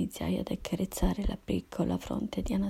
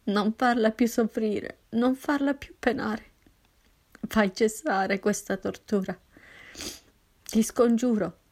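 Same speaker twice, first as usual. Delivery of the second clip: anguished pleading, a touch louder; 2 semitones higher, 4 dB louder than usual. Acted. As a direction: beg God through grief. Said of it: "iniziai a supplicarlo". (supplica disperata, voce rotta)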